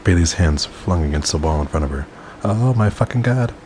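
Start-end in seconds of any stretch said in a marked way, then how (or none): 2.4-3.5 high-pitched narrated squeal. A narrator's reading. Narrator voicing a character's startled outcry, squealing. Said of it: "she squealed".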